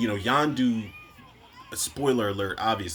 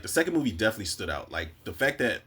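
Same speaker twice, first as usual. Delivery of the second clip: normal talking voice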